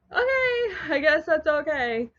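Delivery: high, puzzled okay; bemused okay. Retold or imitated. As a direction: squeak it out, baffled. Cat lies back down.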